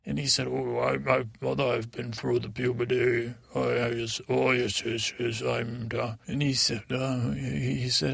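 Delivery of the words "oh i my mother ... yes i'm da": second try at Tom. Retold or imitated. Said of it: "sounds a little bit more like my father".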